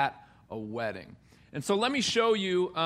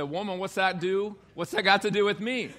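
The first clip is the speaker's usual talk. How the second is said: tag. Retold or imitated. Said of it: "I tried quoting it to my wife".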